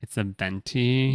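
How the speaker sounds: soft, slow, mock-condescending correction; douchey barista. Barista corrects customer's size order, mock-condescending. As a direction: correct them slowly, with put-on snootiness. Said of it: "In that voice".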